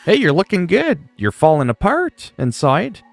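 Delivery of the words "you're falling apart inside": normal talking voice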